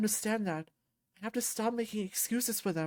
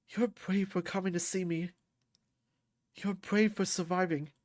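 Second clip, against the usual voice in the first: tender reassurance. Acted. Comforting a crying friend.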